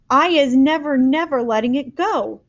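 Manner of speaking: loud, determined; cried. A narrator's reading. Giant to the girl, vowing loudly. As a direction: vow it firmly. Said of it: "the B F G cried".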